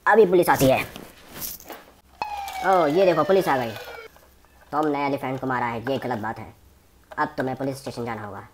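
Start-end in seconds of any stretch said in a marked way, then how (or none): 4.7-8.4 lower, softer stern policeman; a toy policeman reading charges, lower and softer. Pretend. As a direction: play the stern cop, low and quiet. Police toy arrests Hulk.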